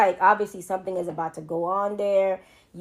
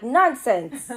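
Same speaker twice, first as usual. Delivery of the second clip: put-on half-hearted British accent, a bit raised; badly faked British accent; 4 semitones higher, 3 dB louder than usual. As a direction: try the British accent on "Nonsense". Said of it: "I can't do the accent".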